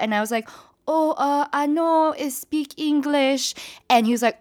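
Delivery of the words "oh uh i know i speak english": faking the funk. Retold or imitated. Narrator faking confusion to the airport worker, mock innocent. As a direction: play dumb with a high innocent voice. Pretending not to understand worker.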